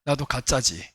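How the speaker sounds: low, soft testing question; quiet challenge. Retold or imitated. Pastor quietly challenging the possessed woman, low and soft. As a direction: ask it low and soft, eyes locked. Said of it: "딱 보면서".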